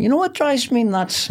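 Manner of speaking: high, far-off comic catchphrase voice; catchphrase delivery. Retold or imitated. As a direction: set up a rant like a stand-up bit. Quoting his own catchphrase style.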